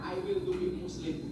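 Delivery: suara tinggi meniru orang asing berbahasa Inggris patah-patah; tiruan orang asing. Retold or imitated. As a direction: tirukan logat mualaf Taiwan dengan nada tinggi. Meniru mualaf Taiwan berbahasa Inggris. (ditirukan setengah bercanda dengan suara tinggi)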